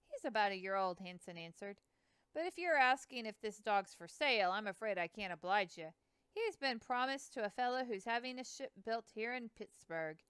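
put-on a proud old boatman bragging about his dogs; Hanson's voice. Hanson voiced, river man.

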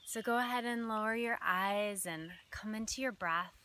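measured breathing guidance, phrases set apart by long pauses; guided meditation. Acted. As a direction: gently lead listeners into their breath.

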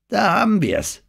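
aufgeregt, hoch und laut; alarmierter Ausruf. Acted. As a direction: rufe es alarmiert aus. Jimmy reagiert auf drohende Gefahr. (aufgeregter Alarmruf)

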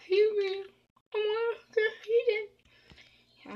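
high, squeaky mock plea; playful begging. Player pleading to be fed in the game, playful begging. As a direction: beg in a drawn-out little high voice.

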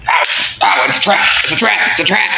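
high, repeated warning cry; acted panic on a repeated warning; alarmed cry. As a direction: yelp it in mock alarm, pitch climbing. Hurt, cries out trap in skit.

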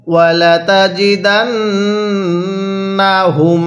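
slow, melodic chanted recitation; Quran recitation. Shown as a demonstration. Teacher leads students in reciting along. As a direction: chant it slowly so students can follow. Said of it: "এবার আমার সাথে মিলিয়ে পড়ুন".

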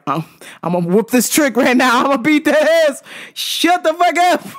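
comically riled-up threat; exasperated outburst. Retold or imitated. Fed-up rant at chatty moviegoers.

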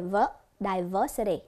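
"ver-" alone, then "diversity" with VER stressed; slow "diversity", leaning on VER; stress on second syllable. Shown as a demonstration. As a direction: isolate "ver-", then slowly say di-VER-si-ty. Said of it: "nhấn ở âm thứ hai".

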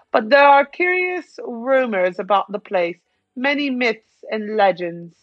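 measured, theatrical commentator delivery; game dialogue read-aloud. Acted. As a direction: read it out like a storybook narrator.

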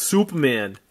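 Superman said the Lynn Massachusetts way, r dropped; Massachusetts accent on Superman. Shown as a demonstration. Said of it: "or as they'd say in Lynn, Massachusetts".

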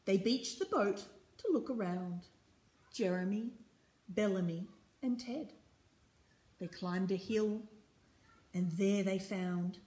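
measured storybook reading; story narration. A narrator's reading. Reader tells children of the pirates' landing, story narration. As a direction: read clearly to young listeners, pausing between phrases.

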